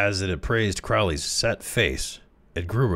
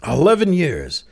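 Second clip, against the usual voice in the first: a high, loud incredulous echo; can't believe the number; unbelieving; 10 semitones higher, 6 dB louder than usual. A narrator's reading. To Crowley, the president echoes him in loud disbelief. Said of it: "The president was unbelieving".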